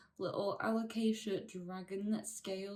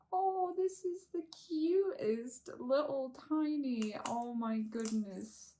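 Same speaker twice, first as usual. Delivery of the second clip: cooing; 6 semitones higher than usual. Real, not acted. Cooing over a tiny plant.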